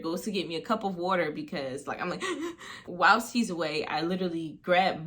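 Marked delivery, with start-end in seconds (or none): 2.3-2.8 imitated panicky, high gasp; hyperventilating gasp. Girl hyperventilates while being restrained, imitated gasp. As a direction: mimic gasping for air. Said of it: "I'm hyperventilating".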